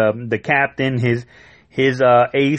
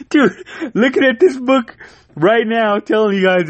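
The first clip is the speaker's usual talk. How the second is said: excited; 10 semitones higher than usual. Real, not acted. Showing the comic to viewers, excited and high. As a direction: gush to the viewers.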